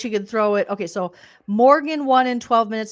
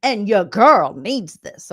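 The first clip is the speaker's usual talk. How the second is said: slow, louder sassy declaration; Morgan's persona; 6 dB louder, slower than usual. Retold or imitated. Host mimicking Morgan's "your girl" talk. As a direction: deliver it with swagger. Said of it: "she was like".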